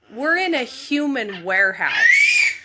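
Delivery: imitating her husband shouting at the guard; defiant shout. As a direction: throw it back at the guard. Husband defies guards, retold quarrel.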